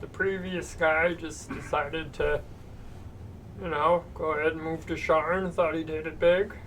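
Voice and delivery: quiet gnome with Romano whine; Ray Romano voice. Acted. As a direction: mumble as a gnome shopkeeper. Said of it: "new arcane bubble gum that changes your voice".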